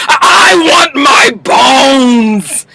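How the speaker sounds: slow, wailing, crying mock plea; mock whining wail. Daddy Pope begging Olivia for his bones, slow crying mock wail. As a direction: blubber it like a sulking child, slow.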